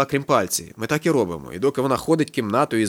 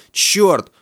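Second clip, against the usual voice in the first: high, louder narrated exclamation; alarmed exclamation; 7 semitones higher, 5 dB louder than usual. A narrator's reading. Woman told it's a bust, alarmed exclamation. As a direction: let the curse jump up, short of screaming.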